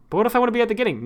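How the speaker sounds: high, rising-and-falling mock plea; pleading protest. Streamer arguing with a stubborn scrub bar, pleading protest. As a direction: plead like a thwarted user, pitched well up.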